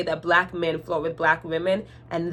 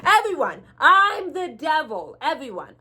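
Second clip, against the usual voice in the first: laughing helplessly; 8 semitones higher than usual. Retold or imitated. Cashier laughing as she tells the whole line she's the devil. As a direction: crack up while announcing it to the room. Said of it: "I literally starts laughing".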